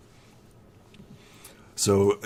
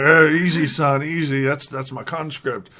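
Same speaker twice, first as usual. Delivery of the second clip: louder, higher calming plea; flustered old farmer calling for calm; alarmed farmer; 6 semitones higher, 6 dB louder than usual. Acted. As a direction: hurry to stop the shot, raised voice. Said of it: "And Farmer Ed's like".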